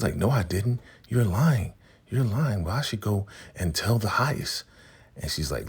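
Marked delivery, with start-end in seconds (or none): 0.1-4.6 higher, indignant accusation; accusing. Retold or imitated. Bridget accusing Ruth of lying, higher and indignant. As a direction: catch her in a lie.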